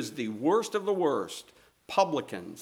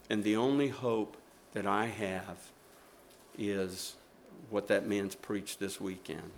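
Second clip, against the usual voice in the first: tearful confession; 4 semitones lower than usual. Retold or imitated. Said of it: "with tears coming down her face".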